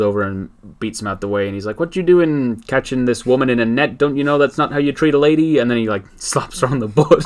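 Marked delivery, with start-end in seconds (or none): 1.8-5.6 indignant hero voice. Retold or imitated. Aquaman voiced in retold comic.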